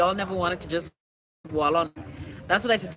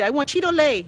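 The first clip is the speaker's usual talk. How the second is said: put-on child's demand; 7 semitones higher, 4 dB louder than usual.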